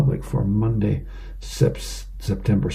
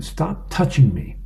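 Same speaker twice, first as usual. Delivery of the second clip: lightly voiced child, pitched up; a hint of a complaining kid; bickering kid; 4 semitones higher than usual. One kid to another in the next room, lightly acted complaint. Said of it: "you can hear from one of the kids".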